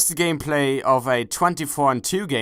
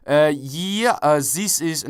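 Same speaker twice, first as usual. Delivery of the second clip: put-on Dutch accent; 2 semitones higher, slower than usual. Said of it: "speak broken English".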